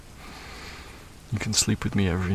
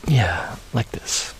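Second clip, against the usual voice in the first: whispering; 2 semitones higher, much slower than usual. Acted. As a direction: breathe the words close and gentle. Whispered while cuddling child.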